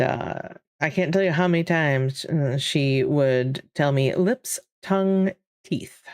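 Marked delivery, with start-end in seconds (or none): 4.1-6.0 "Lips, tongue, teeth" crisply separated word by word; careful enunciation. Retold or imitated. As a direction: imitate a mother drilling "Lips, tongue, teeth". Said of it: "was a stickler for pronunciation and enunciation".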